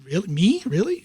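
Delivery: mock amazed, can't believe it's me; surprised disbelief. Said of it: "calls and says, ... it's".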